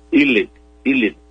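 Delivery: élite said e-LI-te, stress on the middle; élite as in French, e-LI-te. Shown as a demonstration. Explaining the French origin to Leo, élite as e-LI-te. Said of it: "así con el acento grave".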